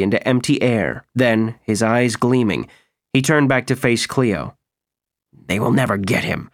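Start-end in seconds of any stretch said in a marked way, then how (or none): 5.3-6.5 spoken through clenched teeth; gritted teeth. Acted. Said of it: "he said through gritted teeth".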